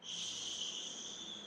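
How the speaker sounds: soft unvoiced shush; a long breathy hush for little ones. Shown as a demonstration. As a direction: hush the room gently. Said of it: "And we say".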